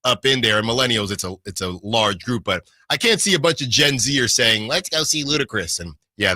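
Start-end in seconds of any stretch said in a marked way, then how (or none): 4.7-5.8 ironic zoomer. Pretend. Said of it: "that's my Gen Z voice".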